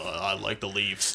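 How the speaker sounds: very slow, deliberate, drawn-out delivery. Taking a turn doing absent cohost Anthony: Anthony impression. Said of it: "do your best Anthony impression".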